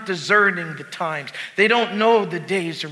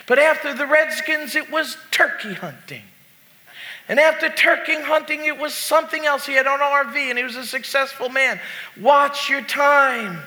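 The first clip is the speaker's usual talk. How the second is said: raised, emphatic preacher voice; preaching; 7 semitones higher than usual. Acted. Pastor warning the congregation with a story, preaching. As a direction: preach it with urgency.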